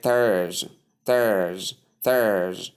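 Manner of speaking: thurs with th, long vowel, final z; three sounds blended. Shown as a demonstration. Teacher drilling thurs for learners, long-vowel pronunciation. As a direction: draw out the vowel in thurs, as in birth. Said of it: "when you combine the three sounds".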